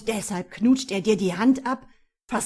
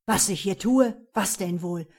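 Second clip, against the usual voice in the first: angry; 5 dB louder than usual. Acted. Jealous man insults her.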